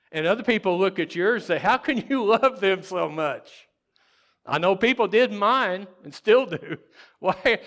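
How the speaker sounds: loud, high, half-laughing outcry; impassioned preaching. Real, not acted. Preacher mimics baffled onlookers of parents, crying out. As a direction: belt it to the whole congregation. Preacher voices others' disbelief, worked up.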